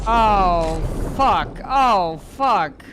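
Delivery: loud panicked swearing, falling off each word; panicked curse. Real, not acted. Streamer cornered by the monster, loud panicked cursing. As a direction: blurt the curses out in alarm.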